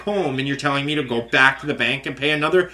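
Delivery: retold furious rant. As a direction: let the fury build and spit it out. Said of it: "it was so infuriating".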